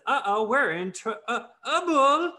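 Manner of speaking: high Southern belle Rogue; Southern accent. Acted. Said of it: "Rogue says".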